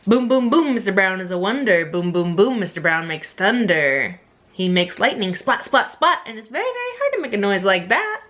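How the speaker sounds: booming, animated picture-book rhyme; playful read-aloud, punching the sound words; reading to children. Acted. Reading of Mister Brown making thunder, animated storytelling.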